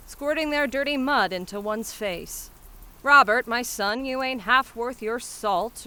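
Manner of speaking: put-on exasperated flower girl giving up on the crowd; Cockney flower seller, indignant. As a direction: hawk your flowers and berate those who won't buy.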